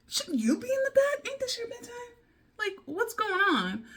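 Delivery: high-pitched, disbelieving mock scolding; incredulous. Aunts visiting late, incredulous quote.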